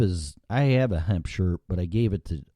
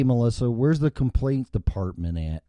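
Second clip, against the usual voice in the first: angry customer rant; 3 semitones higher than usual. Pretend. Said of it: "Sincerely, an asshole customer".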